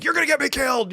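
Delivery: high-pitched hammed-up fearful cry; mock frightened yell. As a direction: wail it while fleeing into the trees. Avoidant runs off screaming.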